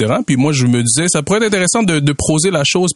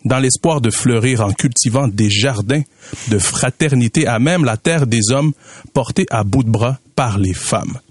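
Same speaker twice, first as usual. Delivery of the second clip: poem recital; slower than usual. Acted. Recites his spoken-word poem.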